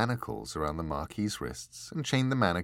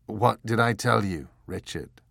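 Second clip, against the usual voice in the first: dry; 5 dB louder than usual. Acted.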